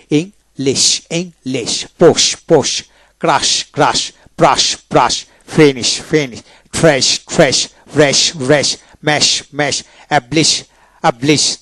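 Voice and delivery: ক্রাশ ending in a full "sh"; palatal SH ending. Shown as a demonstration. Teacher drilling words that end in SH, palatal SH demonstration. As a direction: finish ব্রাশ on "sh", not "s". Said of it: "S H থাকে তালিবস্য".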